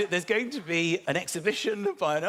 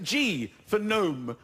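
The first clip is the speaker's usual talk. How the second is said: mischievous curveball; much slower than usual. Retold or imitated. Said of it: "throw them a curveball for my own entertainment".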